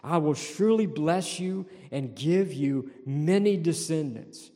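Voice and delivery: surely leaned on with a rise; stress on surely. Shown as a demonstration. Preacher underlining the promise word, stressing surely. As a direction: lean hard on the word surely. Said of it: "underline that word surely".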